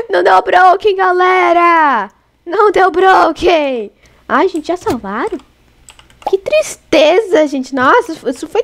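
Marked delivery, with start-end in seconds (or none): 0.1-3.9 long stretched-out cheer, raised pitch; jubilant calling out. Real, not acted. Streamer announcing no broken to the crowd, jubilant. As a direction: draw each phrase out triumphantly. Celebrates to viewers, drawn out.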